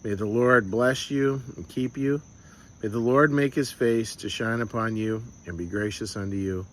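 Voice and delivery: steady, gentle benediction; blessing. Acted. Pastor blessing the congregation, calm and tender. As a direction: bestow it calmly on the listeners.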